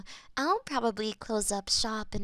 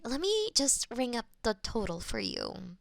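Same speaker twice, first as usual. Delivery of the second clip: ordinary delivery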